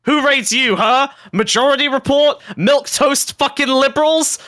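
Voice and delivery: high-pitched indignant taunting; worked-up, goading retort; heated comeback. Real, not acted. Fires back when teased about raids.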